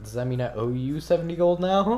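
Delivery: mildly baffled, rising at the end; unsure, checking what this means; confused question. Acted. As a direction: climb steadily into a puzzled question. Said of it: "he looks really confused".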